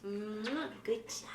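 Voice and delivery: whispered kiss and soft good job; hushed praise for the dog. Real, not acted.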